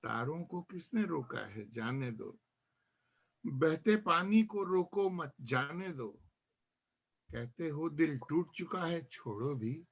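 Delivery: measured verse, lines set apart by pauses; poem recitation. Acted. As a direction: let each refrain fall away at the end. Recites own nazm to gathering. (नज़्म का ठहर-ठहर कर पाठ)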